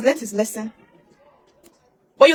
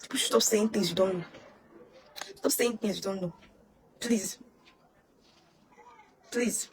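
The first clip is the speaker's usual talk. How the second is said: quiet plea; 5 semitones lower, 15 dB quieter than usual. Real, not acted. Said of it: "pleading, voice dropping".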